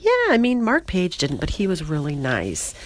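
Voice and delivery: lightly voiced goofy woman. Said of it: "She's like".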